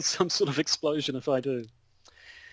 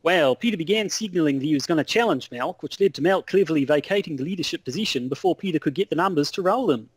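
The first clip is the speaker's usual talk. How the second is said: wobbly put-on Australian accent; Aussie correspondent losing hold of the accent; mock Australian news report. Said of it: "I don't even know what I'm doing".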